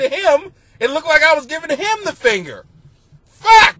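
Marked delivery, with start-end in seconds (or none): 3.2-3.8 high, loud burst of real dismay; real yelled curse. Real, not acted. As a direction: blurt it out, genuinely horrified. Reliving boss seeing the finger.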